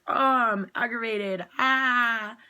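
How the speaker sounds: hammed-up wail of annoyance; mock aggravated. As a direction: ham up being fed up. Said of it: "you can either be like".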